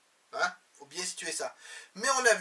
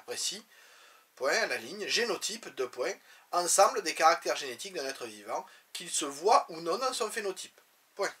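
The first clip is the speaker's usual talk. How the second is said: dictating; 3 semitones lower than usual. Shown as a demonstration. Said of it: "teacher dictates definitions with punctuation".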